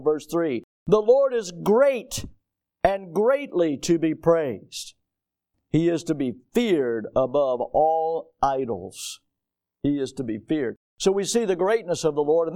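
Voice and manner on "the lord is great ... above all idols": slow, solemn psalm reading; scripture reading. Acted. Preacher reading the psalm to his congregation, slow and solemn. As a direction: lift each phrase slowly and reverently.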